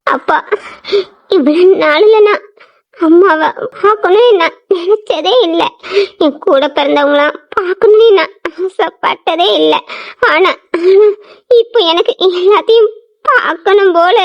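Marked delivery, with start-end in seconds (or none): 0.1-5.6 crying. Acted. Daughter confesses longing, tearful. 10.3-11.1 crying. Acted. Daughter breaks down mid-sentence.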